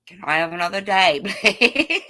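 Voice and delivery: high, fast and pleading with a laugh. Acted. Tenant begs landlord for rent.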